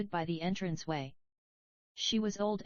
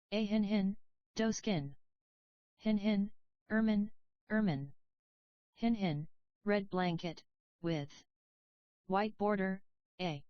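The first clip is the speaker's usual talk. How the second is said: gruff coarse wail. A narrator's reading. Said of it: "In a gruff, coarse voice she broke forth".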